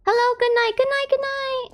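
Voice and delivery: high, bright sing-song farewell; sing-song goodbye. Pretend. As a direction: chirp the good nights.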